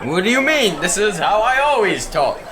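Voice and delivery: weird formal talk. Acted. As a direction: insist in a mock gentleman's voice. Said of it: "why are you talking weird".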